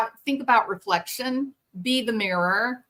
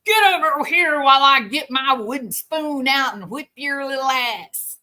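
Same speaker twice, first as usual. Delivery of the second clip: higher, louder threatening parent voice; mock angry parent; 5 semitones higher, 5 dB louder than usual. Parent threatening a child with the wooden spoon, mock angry. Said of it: "It is just insanity to say".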